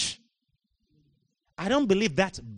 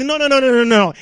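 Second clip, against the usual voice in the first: emphatic no; 7 semitones higher, 9 dB louder than usual. Real, not acted. Rejecting the attitude.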